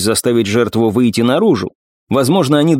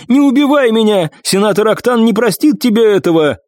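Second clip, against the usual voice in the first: desperate begging; 9 semitones higher than usual. Acted. Wounded man begging for life.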